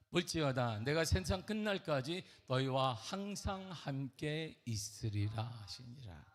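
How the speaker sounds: slow solemn scripture recitation; slow reverent reading of Jesus's words. Acted. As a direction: read it like holy writ, unhurried. Reads scripture slowly.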